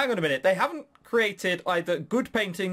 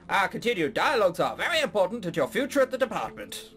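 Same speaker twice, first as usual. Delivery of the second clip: mild cartoon Canadian official; lightly put-on Canadian parrot; Canadian accent. Parrot stresses dialogues with Alex, Canadian accent. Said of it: "we have a Canadian parrot".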